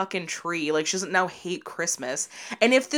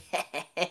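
put-on tag for little-kid snicker; 4 semitones lower, 9 dB quieter than usual. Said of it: "shitty little kid where it's like".

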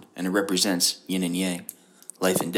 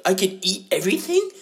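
imitating Billy; 10 semitones higher, 4 dB louder than usual. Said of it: "Billy was, like".

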